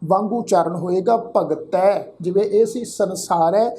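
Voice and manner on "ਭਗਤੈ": ਭਗਤੈ with a final "-tai"; ending with dulavan. Shown as a demonstration. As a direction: end ਭਗਤੈ on an open "ai" vowel. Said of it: "ਤੱਤੇ ਅੱਖਰ ਤੇ ਦੁਲਾਵਾਂ".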